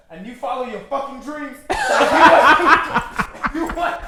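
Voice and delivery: lightly put-on Michael Blackson accent; a hint of Michael Blackson's accent, preaching advice; mock Michael Blackson accent. Friend gives mock advice in a light Michael Blackson accent. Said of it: "That's exactly the fucking accent that was going for".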